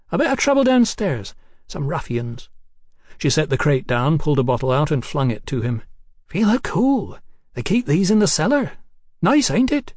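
put-on high, giddy voice of a tipsy young woman. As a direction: play her high and cheeky. Hetty voiced by narrator.

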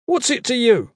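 high-pitched defiant retort; loud challenge. A narrator's reading. Goss challenges the stranger in the hall, loudly. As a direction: throw the question back boldly. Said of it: "Goss said loudly".

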